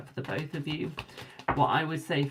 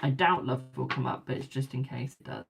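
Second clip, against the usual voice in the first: words pulled by a yawn. Real, not acted. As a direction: speak through a yawn. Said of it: "Why am I yawning?".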